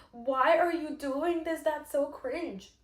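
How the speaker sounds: high, loud mock judgment, slowed; mock disdain from people who judge; mocking critics. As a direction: imitate someone sneering at you. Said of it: "some people would be like".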